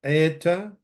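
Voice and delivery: "Eeta" as AY-ta, with no d sound; silent daleth. Shown as a demonstration. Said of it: "the daleth is not pronounced".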